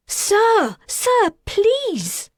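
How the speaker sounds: very high, loud pleading; begging him to stop; urgent plea. Acted. Attendant pleads with father.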